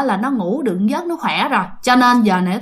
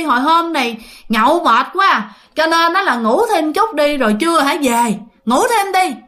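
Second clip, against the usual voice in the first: grumpy scolding; 5 semitones higher than usual. Retold or imitated. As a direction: snap at the early caller, mock-annoyed. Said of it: "bắt đầu nạt nói".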